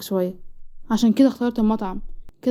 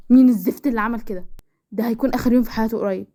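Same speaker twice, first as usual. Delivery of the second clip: angry. Acted. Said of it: "اهدى، اهدى".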